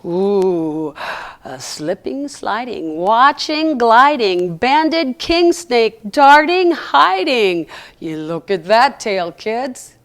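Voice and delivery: slow, gentle rhyming read; poem reading. Acted. Reads a rhyming poem aloud.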